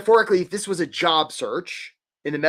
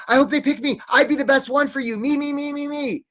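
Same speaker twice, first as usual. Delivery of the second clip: needy job seeker; 9 semitones higher than usual. Retold or imitated. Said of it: "some of you are approaching this saying".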